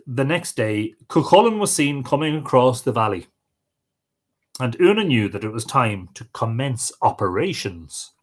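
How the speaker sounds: expressive storyteller with rising and falling pitch; folk tale narration. Acted. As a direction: read an old tale aloud, lively dialogue included. Reads a folk tale aloud.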